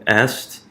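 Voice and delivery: "est" aislado como sílaba; syllable counted out. Shown as a demonstration. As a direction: say "est" alone as the next syllable, rising. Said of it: "I'll write a little box over that".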